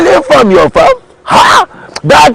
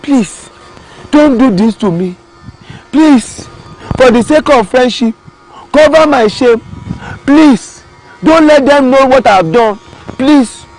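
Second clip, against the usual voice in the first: begging; 4 semitones higher than usual. Acted. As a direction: beg for mercy, please after please. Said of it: "The tortoise started begging".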